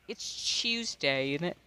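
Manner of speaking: slow British impression. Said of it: "in my British tone".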